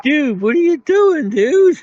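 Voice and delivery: high startled dude, what are you doing; shocked. Retold or imitated. Guard shocked at a peeping coworker, high and startled. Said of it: "I was like".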